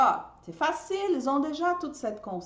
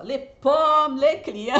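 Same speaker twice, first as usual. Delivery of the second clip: louder, laughing through the words; 6 semitones higher, 8 dB louder, slower than usual. Real, not acted. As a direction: laugh at the pommes and clients. Teacher laughs at her own metaphor. (en riant, plus fort)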